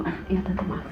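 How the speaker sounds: soft, meek apology to the aunt; quiet apology. Retold or imitated. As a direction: mumble sorry sheepishly. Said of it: "Tante gue cuma".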